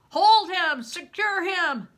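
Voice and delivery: loud, high barked orders; soldiers shouting. Acted. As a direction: bark commands to seize him. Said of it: "What I heard were shouts".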